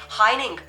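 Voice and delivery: "heining", the G dropped; Danish pronunciation. Shown as a demonstration. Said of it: "you have to say".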